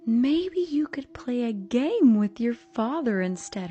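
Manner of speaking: slow breathy sing-song mother; eerie whispered suggestion. A narrator's reading.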